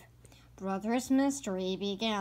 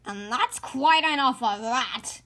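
stern papa; 3 semitones higher, 6 dB louder than usual. Acted. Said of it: "added Papa Bear".

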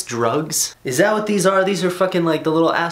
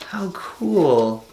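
whispering; 4 semitones higher than usual. Real, not acted. Whispers aside about sticker.

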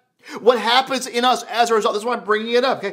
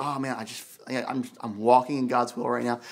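mock contentment; 8 semitones lower, 6 dB quieter than usual. Imagined believer at peace, then contradicted.

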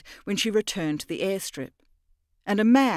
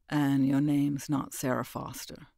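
calm menace as he exposes her; the stranger unmasking her lie, low and cold; lightly voiced cold man; 4 semitones lower than usual.

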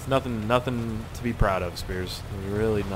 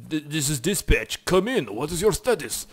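mock dispatcher; 3 semitones higher, 3 dB louder than usual. Pretend police dispatch radio call.

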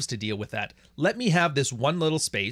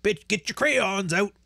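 high, slow put-on mocking voice, pitched up; mocking Steve the Dean Williams; 8 semitones higher, slower than usual. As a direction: draw it out slowly in a silly raised voice to make fun of him. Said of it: "I fucking love making fun of that guy".

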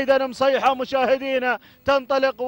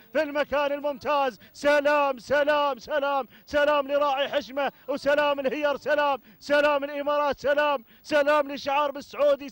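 fervent race call with repeated cries; live play-by-play; 3 dB quieter than usual. Real, not acted. Commentator following camels to the finish, energetic play-by-play. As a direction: keep the race call rolling.

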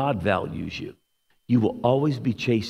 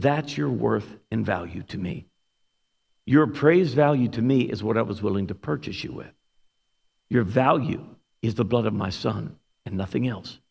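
clear, heartfelt word; 2 semitones lower than usual. Retold or imitated. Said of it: "the Holy Spirit spoke so clearly to my heart".

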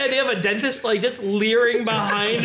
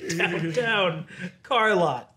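slow laughing imitation of stumble; slow mock stumble; 5 semitones lower, much slower than usual. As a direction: drag out the name, laughing. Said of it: "If there's a car dealership".

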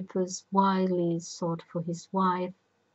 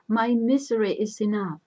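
anguished; 4 semitones higher, 6 dB louder than usual. A narrator's reading. Jocasta desperate.

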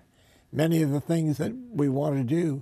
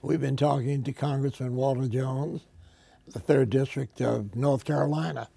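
hoarse, rough-edged interview voice. Real, not acted. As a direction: speak through a sore, hoarse throat. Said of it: "pardon my, my hoarse voice today".

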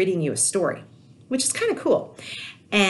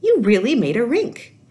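put-on delighted child; 8 semitones higher, 5 dB louder, slower than usual. A narrator's reading. Child character delighted by rink.

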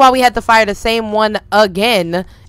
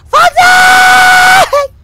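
long high shout across the house; high-pitched joyful holler; calling out; 6 dB louder than usual. Real, not acted. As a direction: call the dog from far away, drawn out. Calling the dog again.

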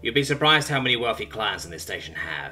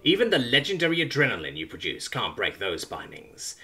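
ranting. Acted. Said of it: "it rants".

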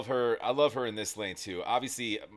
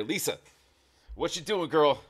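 excited hype; 5 semitones higher, 5 dB louder than usual. Real, not acted. Hyped reaction to performer.

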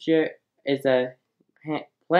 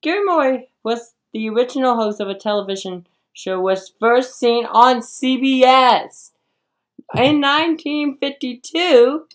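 laughing; 9 semitones higher, 6 dB louder than usual. Real, not acted. Host laughing through question.

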